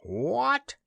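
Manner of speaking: the goose wails at the dismal news. A narrator's reading. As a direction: wail it in dismay. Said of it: "wailed the unhappy goose".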